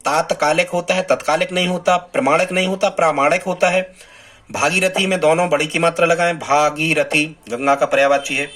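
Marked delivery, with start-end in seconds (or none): 0.0-2.0 तात्कालिक with long first aa, तत्कालिक with short a; teacher contrasts तात्कालिक and तत्कालिक aloud; repeat for students. Shown as a demonstration. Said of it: "फिर से सुन लें". 2.0-3.9 प्रामाणिक with long praa, प्रमाणिक with short pra; teacher contrasts प्रमाणिक and प्रामाणिक aloud; repeat for students. Shown as a demonstration. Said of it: "फिर से सुन लें".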